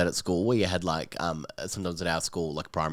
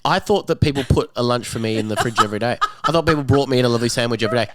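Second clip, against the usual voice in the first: gleeful oblivious thief; 4 semitones higher, 5 dB louder than usual. Pretend. Mock sandwich thief excuse.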